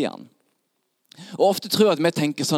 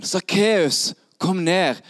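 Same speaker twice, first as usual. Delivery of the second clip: raised, higher-pitched call; 5 semitones higher, much slower than usual. Acted. Jesus calls Zacchaeus down, raised calling voice. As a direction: call up to someone in a tree. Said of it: "Men han roper igjen".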